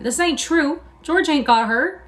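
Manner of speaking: high, loud, slow frightened insistence; refusing to believe it; panicked denial. A narrator's reading. Lenny panicking.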